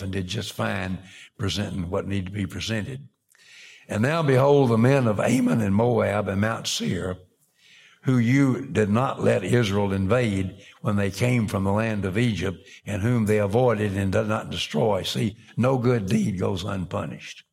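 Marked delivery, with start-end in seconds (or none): 3.9-15.0 projected, measured pulpit reading; Scripture reading. Acted. Preacher reads the king's prayer to the congregation, projected Scripture reading. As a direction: read it out firmly from the pulpit.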